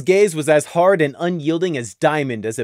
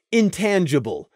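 ordinary delivery, nothing marked

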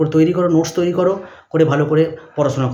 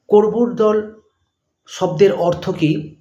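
dictating; much slower than usual. Shown as a demonstration. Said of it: "dash দিয়ে লিখবে".

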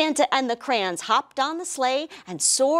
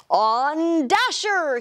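slow stretched shout to the reindeer; shouted call; 5 semitones higher, much slower than usual. Acted. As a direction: call out to the team, drawn out. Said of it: "he shouted".

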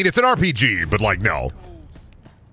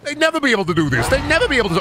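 excited disbelief; 11 semitones higher, faster than usual. Real, not acted. Disbelief at water jump.

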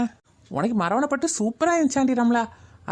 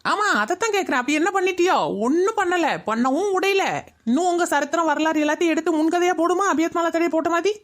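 higher-pitched, needling indignation; sarcastic retort; 4 semitones higher than usual. Acted. Woman taunting the gossips about their past, sarcastic retort. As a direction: throw their question back at them scornfully.

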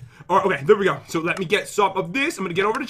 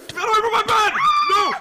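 high, frantic yell to chase it off; panicked shout; 13 semitones higher than usual. Real, not acted. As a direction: scream it high and desperate. Enemy at her bed in game.

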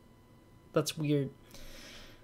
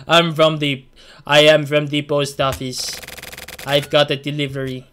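stiff robot voice, louder; 6 dB louder than usual. Acted. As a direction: read it like a robot. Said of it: "I'm reading it like a robot kind of thing".

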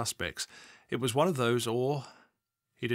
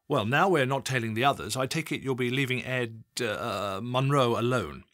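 louder, pointed senior officer with a slip; pointed boss; 4 dB louder than usual. Acted. Assistant chief constable telling Adam to leave Munro alone, pointed. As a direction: lean on the junior, then stumble.

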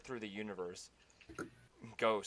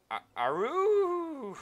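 cry out; 6 dB louder, much slower than usual. Acted. Battle-cry at timer start.

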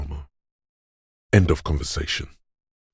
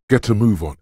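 higher, pushy command to get moving; urging order; 6 semitones higher, 4 dB louder, much faster than usual. Acted. Coach voice hurrying someone along, urging order. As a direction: push them to hurry, pitched up.

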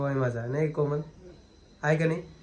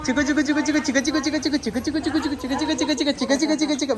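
vendor's call; 10 semitones higher than usual. Retold or imitated. Mimics the chikoo vendor's call.

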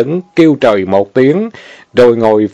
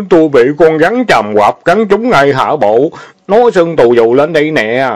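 fake crying; 4 semitones higher than usual. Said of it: "làm bộ khóc miếu máu".

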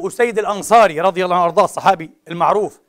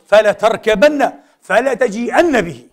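urgent command; 3 semitones higher, 3 dB louder, slower than usual. Acted. Preacher voicing the Prophet ordering Abu Usayd, commanding.

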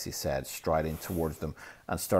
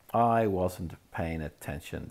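dramatic. Acted. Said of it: "Myrtle dramatically".

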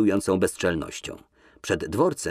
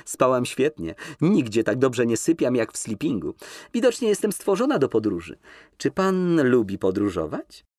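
higher, lilting flirtatious lady; coquettish Nina; 5 semitones higher than usual. Acted. Nina teases Kolski in the limousine, high and coquettish. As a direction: lift her voice, coy and teasing.

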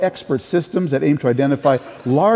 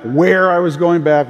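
"where" drawn out and punched loud; a long, loud "where" for contrast; stress on where; 5 dB louder than usual. Real, not acted. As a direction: lean hard and slow on "where". Listing each changed travel plan.

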